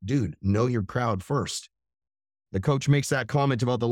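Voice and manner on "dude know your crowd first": slow, even, calm put-down; a calm, unbothered "know your place"; not arrogant, just matter-of-fact. Retold or imitated. Friend Devin calmly tells the rude guy to know his crowd. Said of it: "Not arrogant, just".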